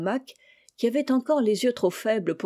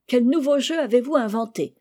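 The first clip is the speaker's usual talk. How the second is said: put-on higher, lively boyish question; exclaiming; 5 semitones higher, 4 dB louder than usual. A narrator's reading. Boy storming in on uncle and cousin, exclaiming. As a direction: burst in and call out the question. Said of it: "s'écria-t-il".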